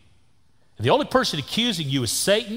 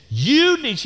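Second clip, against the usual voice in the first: scolding lady; 9 semitones higher, 3 dB louder than usual. Retold or imitated. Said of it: "she said".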